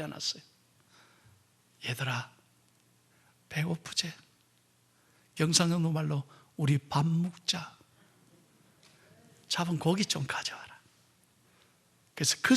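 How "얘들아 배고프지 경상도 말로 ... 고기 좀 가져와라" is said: much softer, gentle Jesus calling his friends; tender call. Acted. Jesus gently inviting hungry disciples to eat, tender and soft. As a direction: coax them softly to breakfast.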